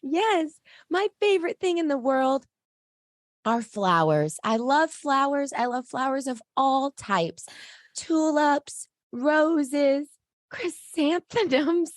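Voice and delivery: high, put-on cheery dwarf voice; happy dwarf. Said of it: "I had to put on my happy voice".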